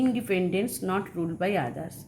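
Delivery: slow, each word clear; slow dictation. Shown as a demonstration. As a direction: dictate it slowly to the class. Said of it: "teacher dictates meaning". (ধীরে বলা)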